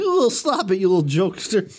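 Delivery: high, teasing scold; mock playful. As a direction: coo it like a coy girlfriend. Voicing Courtney teasing.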